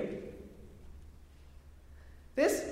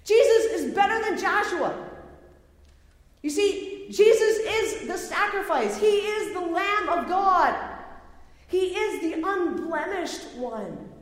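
excited proclamation; 4 semitones higher, 4 dB louder than usual. Acted. Still voicing the author's excited argument.

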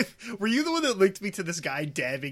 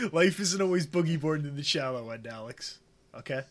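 whispered asmr role play. Retold or imitated. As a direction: murmur it like a tender ASMR comforter. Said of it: "It is A S M R roleplay".

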